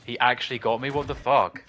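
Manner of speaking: can't believe he got hit; disbelieving outburst. Real, not acted. Gamer hit by a boss, loud incredulous outburst.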